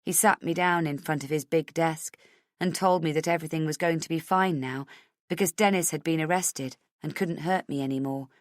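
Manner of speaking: usual speaking voice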